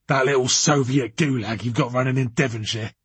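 put-on blustering man, forceful opening; irate, overbearing boss. A narrator's reading. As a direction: dress down a subordinate in character. Voices Anderson accusing.

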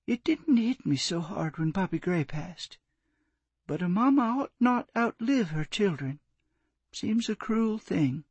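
grieving. Acted. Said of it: "her voice broke".

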